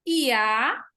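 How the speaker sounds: "Iá" como uma sílaba só, esticada; sílabas juntas. Shown as a demonstration. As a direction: junte o I ao A em "Iá". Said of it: "Então, iá". ("Iá" numa sílaba só, bem marcada)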